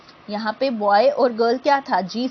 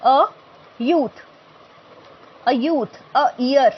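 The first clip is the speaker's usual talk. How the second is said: slow careful example; 2 semitones higher, 4 dB louder, much slower than usual. Shown as a demonstration. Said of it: "teacher models examples slowly".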